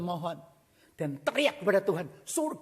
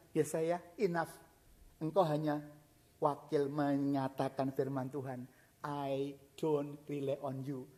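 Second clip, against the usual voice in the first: quiet refusal; 6 semitones lower, 5 dB quieter than usual. Acted. Hezekiah turning the prophet away.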